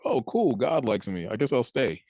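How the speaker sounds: high, bright-eyed mock excitement; mock delight. Preacher mimicking a listener's surprised, delighted reaction. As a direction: gush like someone just told God likes them.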